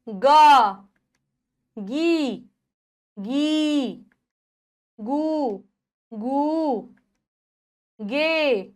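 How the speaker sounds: each syllable alone, loud and drawn out with long pauses; syllable drill. Shown as a demonstration. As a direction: chant the barakhadi for children to repeat, क का की कु one by one. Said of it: "चलिए अब हम उच्चारण करना सीखते हैं।".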